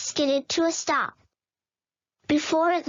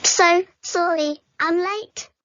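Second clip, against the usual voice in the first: out of breath; 3 semitones higher, 4 dB louder than usual. Acted. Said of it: "Joe panted".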